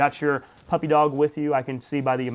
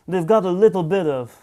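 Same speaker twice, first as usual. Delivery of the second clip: half-hearted mock Italian accent; lightly put-on, lilting Italian accent; attempted Italian accent. Joking with viewers about mafia morals in a poor Italian accent. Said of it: "I can't do an Italian accent".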